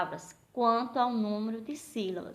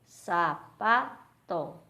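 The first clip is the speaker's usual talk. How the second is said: "sapato" very slow in three separate beats; loud SA - PA - TO with clear gaps; syllable by syllable; 2 semitones lower, 5 dB louder, much slower than usual. Shown as a demonstration. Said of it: "três sílabas".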